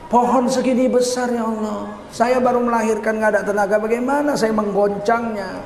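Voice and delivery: lightly acted, plaintive objection; helpless protest. Preacher voicing Maryam's protest to God, mildly plaintive. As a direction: plead that it is too much to ask.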